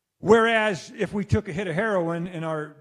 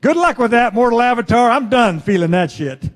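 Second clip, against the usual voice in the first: scornful brain voice; 5 semitones higher, 11 dB louder than usual. Retold or imitated. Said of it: "your advanced brain says".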